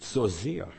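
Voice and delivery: "So sehr" repeated alone, both words pressed; stress on so sehr. Shown as a demonstration. Preacher isolating the key words for the congregation, stressed. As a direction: echo "So sehr" as a pointed repeat. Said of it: "Da liegt die Betonung auf so sehr".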